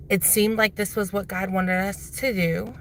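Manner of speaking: talking with retainers in; slightly lisping through retainers; wearing a retainer. Real, not acted. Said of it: "Sorry, I have my retainers in".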